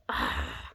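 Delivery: short, frustrated sigh; exasperated sigh. Real, not acted. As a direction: sigh out your annoyance. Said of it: "Makes me so angry".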